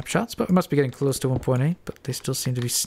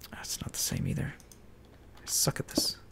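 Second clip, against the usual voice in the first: whispering; 3 semitones higher, 12 dB quieter than usual. Real, not acted. Frustrated whisper to herself.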